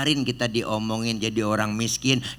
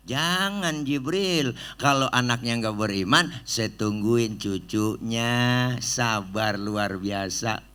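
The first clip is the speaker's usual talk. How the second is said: gentle refusal; slower than usual. Acted. Prophet gently refuses again.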